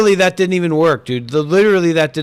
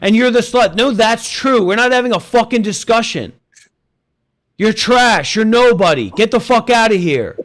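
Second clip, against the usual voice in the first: higher-pitched, scornful telling-off; heated dismissal; 4 semitones higher than usual. Real, not acted. Host throws an arguing guest off stage, heated and scornful. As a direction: shut the guest down and throw them out.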